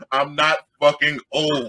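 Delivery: slow, dazed half-hearted yell through a laugh; mumble-yell it like you've just been knocked down; woozy retold yell. Storyteller dazed on the curb, slow woozy mock yell. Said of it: "the only thing I remember yelling".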